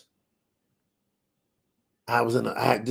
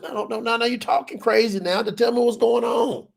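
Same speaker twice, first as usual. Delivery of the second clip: higher, firm fatherly protest; a hint of a dad cutting his son off; daddy's voice; 7 semitones higher than usual. Daddy telling his son he's talking crazy, higher and firm.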